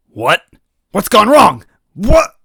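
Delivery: high, loud panicked what; confused robot. Acted. Fallen robot villain in panic, high and loud. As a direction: sputter in shock, rising each time.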